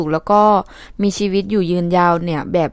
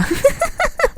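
high giggle; 4 dB quieter than usual. Real, not acted. Jokes about blaming her husband.

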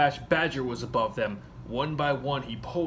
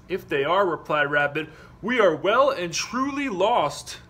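worried Rabbit; 5 semitones higher, 7 dB louder than usual. Acted. Rabbit fears being lost.

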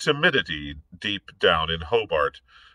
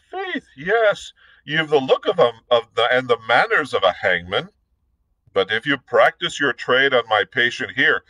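Irish gentleman; 3 semitones higher, 3 dB louder than usual. Acted. Blood lecturing Hobart.

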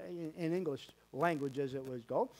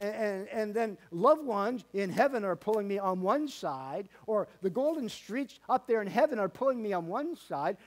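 mock excited Paul; 4 semitones higher, 4 dB louder than usual. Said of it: "Why didn't he say".

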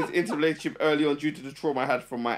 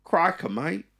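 mock Australian accent; slower than usual. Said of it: "Do that one again".

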